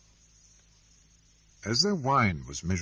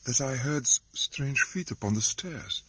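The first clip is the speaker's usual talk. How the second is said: faltering voice; 5 semitones higher than usual. Acted. Wife tells the doctor of footsteps, faltering. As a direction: stumble over the words, frightened. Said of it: "in a faltering voice".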